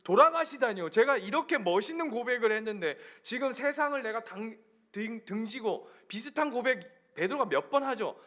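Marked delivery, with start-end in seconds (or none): 0.0-5.9 Peter telling Jesus off, raised pitch; acted scolding. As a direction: scold in mock indignation, a little louder. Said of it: "예수님을 막 혼내는 거예요". (연기하듯 따져 묻는 꾸지람)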